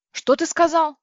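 high, loud indignant demand; outraged question. A narrator's reading. Люся возмущённо кричит на компьютер. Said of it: "возмутилась я".

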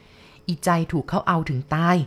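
very slow, heavy telling; grim secret. Acted. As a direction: drag it out, ominous. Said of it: "ป้าแย้มเล่า".

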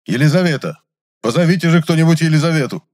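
high, loud call toward the lab; shouting off-stage. A narrator's reading. Chemist shouting toward the lab for Elizaveta. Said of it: "И крикнул в сторону лаборатории".

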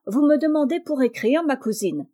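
butter up the suspicious cousin; sly and sweet. Acted. Charles sweetly answering his cousin, falsely meek. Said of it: "dit-il d'un air patelin".

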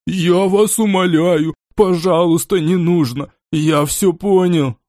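desperate begging, slowed and strained; begging for his life; pleading. Acted.

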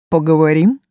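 hissing otherworldly demon voice; an eerie demon's hiss, gently menacing; шипящий потусторонний голос. Acted. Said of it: "шипящим потусторонним голосом". (ласковое потустороннее шипение демона)

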